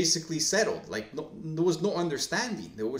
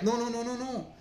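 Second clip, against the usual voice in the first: emphatic denial; 10 semitones higher than usual. Acted. EA guy objects.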